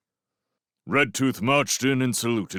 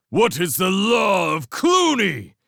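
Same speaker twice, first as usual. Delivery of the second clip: much higher, loud war cry question; rallying shout; 11 semitones higher, 7 dB louder than usual. Acted. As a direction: whip the horde into frenzy. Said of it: "As Clooney exhorted them".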